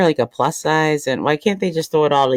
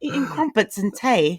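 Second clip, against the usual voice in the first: slow, put-on British accent; mock British accent; 5 semitones higher, 4 dB quieter, slower than usual. Co-host jokes about friend in the UK, mock British accent. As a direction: draw it out in playful British. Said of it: "how to do that accent".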